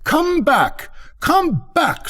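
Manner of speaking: very high-pitched calling out; mild scream. A narrator's reading. Rocket calling the departing duck, screamed but restrained. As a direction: shriek after them without much volume. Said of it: "screamed the rocket".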